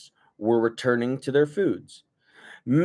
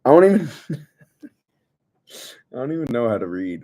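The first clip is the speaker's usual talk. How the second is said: mock dim voice; 4 dB louder, much faster than usual. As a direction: play dumb in a put-on voice. Mock dumb voice.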